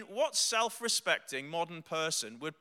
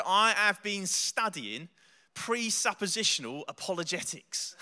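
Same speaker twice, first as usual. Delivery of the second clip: put-on Cockney accent. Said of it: "He's got a thick Cockney accent".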